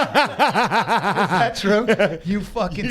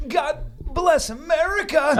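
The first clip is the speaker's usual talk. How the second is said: patriotic proclamation; 5 semitones higher, much slower than usual. Retold or imitated. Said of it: "sometimes I say".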